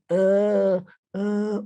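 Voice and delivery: reliving the struggle to breathe through broken ribs; pained breathing groans. Retold or imitated. Prisoner reliving the groans he made after the beating, strained. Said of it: "making fun of this noise".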